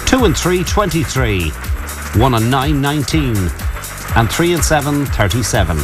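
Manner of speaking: steady number calling with pauses; bingo caller. Acted. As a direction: call each bingo number clearly.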